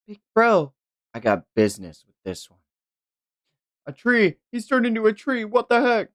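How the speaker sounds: put-on high, excited girl's voice; young girl voice. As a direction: squeal it like a surprised kid sister.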